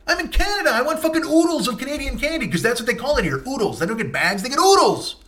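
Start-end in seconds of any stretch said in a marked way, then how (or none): none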